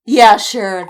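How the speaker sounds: loud, scoffing "Yeah, sure."; sarcastic yeah sure. Retold or imitated. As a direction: throw it away with mock agreement. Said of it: "and I'm just like".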